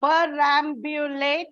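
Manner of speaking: PERAMBULATE measured out beat by beat; teacher dividing "Perambulate" into its syllables. Shown as a demonstration. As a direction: sound out "Perambulate" in careful syllables.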